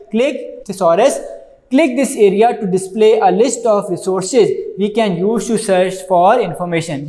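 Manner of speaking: very slow, word-by-word reading from the book; slow textbook reading. Acted. Teacher reading the book aloud to students, slow dictation.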